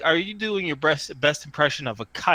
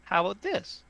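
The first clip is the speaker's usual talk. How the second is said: high, placating little voice; small tinny voice; 5 semitones higher than usual. Acted. Tree voice gives in to wary strangers, tinny. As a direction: concede quickly in a high small voice. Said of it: "says the voice from the tree".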